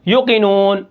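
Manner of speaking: یوقنون said without the long waw; waw dropped. Shown as a demonstration. Teacher showing the wrong reading with waw removed. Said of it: "واو کو غائب کر دیں".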